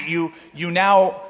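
usual speaking voice

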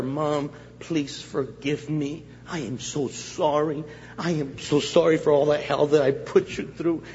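acted apology. Acts out tearful apology to mother.

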